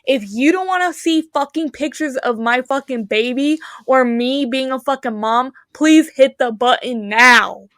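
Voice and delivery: mock megaphone blast to all followers; imagined scream at followers. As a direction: yell it at an imaginary crowd, slowing down. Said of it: "and fucking scream".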